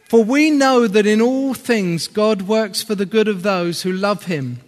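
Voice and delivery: scripture reading. Real, not acted. Reads scripture.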